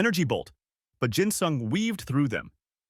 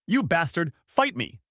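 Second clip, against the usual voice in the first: high, raised furious taunt; angry challenge; 7 semitones higher than usual. Acted. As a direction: demand a fight in rage. Enraged man challenging the rogue.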